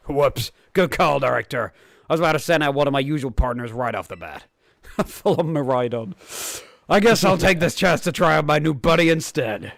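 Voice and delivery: lightly voiced eager rival; bright, keen trainer girl, lightly played; Nemona voice. Reads Nemona's lines aloud.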